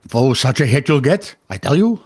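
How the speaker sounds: lightly voiced old Jewish man; a hint of an old Jewish guy kvetching. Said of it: "with an old Jewish guy voice".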